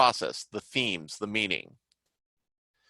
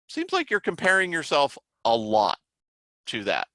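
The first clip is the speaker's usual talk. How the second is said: gentle therapist voice; 3 semitones higher than usual. Retold or imitated. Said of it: "sort of gently".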